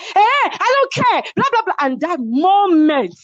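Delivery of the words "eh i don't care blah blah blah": dismissive. Retold or imitated. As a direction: wave her away, I don't care. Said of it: "she's like".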